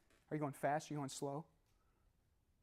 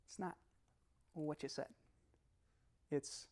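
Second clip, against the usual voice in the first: quietly ticked off; 8 dB quieter, slower than usual. Acted. Upset partner correcting you, quietly pissed. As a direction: let each piece land softly, with long pauses. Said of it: "And they say to you".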